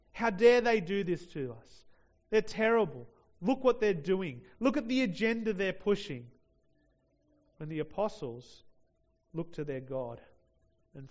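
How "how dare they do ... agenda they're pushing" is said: louder, higher mock outrage at opponents; mock indignant outrage. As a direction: ham up the churchgoer's indignation. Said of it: "frustrated and angry and indignant".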